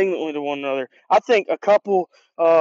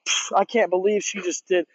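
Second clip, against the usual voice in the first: scoffing. Retold or imitated. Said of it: "kinda like arrogantly, scoffing at her".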